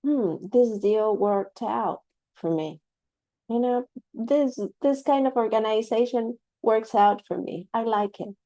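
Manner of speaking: a lightly voiced satisfied customer; example sentence. Shown as a demonstration. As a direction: act out a pleased speaker, lightly. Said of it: "you could say".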